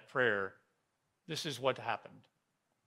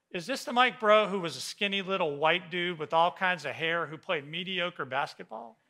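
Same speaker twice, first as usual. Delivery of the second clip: higher and louder, laughing as he teases; teasing with a laugh; 5 semitones higher, 7 dB louder than usual. Retold or imitated. Willie on the phone teasing the pastor, laughing. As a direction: rib an old friend warmly with a chuckle.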